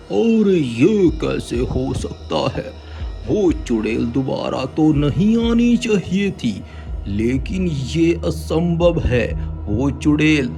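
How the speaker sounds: slow shocked baba voice; disbelief, heavy and slow; stern holy man. Acted. (हैरान बाबा)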